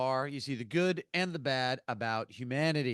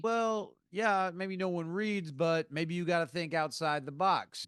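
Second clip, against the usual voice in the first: slow, higher, kindly advice; very nicely; 4 semitones higher than usual. Retold or imitated. Big guy at the bar advising the frustrated writer, very nicely. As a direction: ease the advice out gently, like a friendly big guy. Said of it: "very, very nicely".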